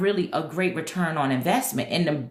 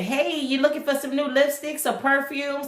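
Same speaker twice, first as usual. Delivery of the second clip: sweet sales pitch; 6 semitones higher than usual. Retold or imitated. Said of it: "find a nice way to say".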